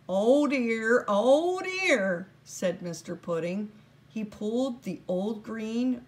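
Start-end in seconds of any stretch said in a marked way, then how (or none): 0.1-2.3 louder, higher fussing elf; a busy little man tutting over the rules; the elf boss fretting over a broken rule; fussy little elf. Acted. Mister Pudding frets again.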